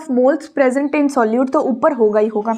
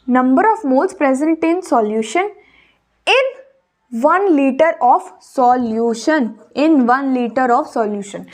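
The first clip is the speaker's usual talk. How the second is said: very slow, word by word, for note-taking; slow dictation; much slower than usual. Shown as a demonstration. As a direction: spell it out so students can write it down. Dictating the definition slowly.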